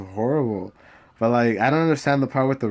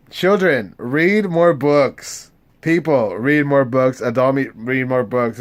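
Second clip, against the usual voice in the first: exhorting viewers; 3 semitones higher, 6 dB louder than usual. Real, not acted. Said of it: "exhorting viewers".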